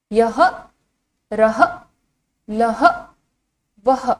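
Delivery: "यह, रह, लह, वह" each apart with an h ending; visarga pronunciation. Shown as a demonstration. Teacher reciting the row for children, visarga pronunciation. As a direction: sound out "यह, रह, लह, वह" singly, with long pauses. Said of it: "इसका उच्चारण किस तरह से किया जाता है".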